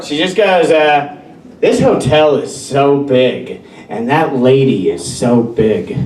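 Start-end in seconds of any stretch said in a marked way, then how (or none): 1.6-6.0 slow, drawn-out observation; stream-of-consciousness musing. Retold or imitated. Girlfriend remarking on the hotel atrium, slow musing. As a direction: imitate someone voicing each thought slowly as it comes. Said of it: "stream of consciousness way of speaking".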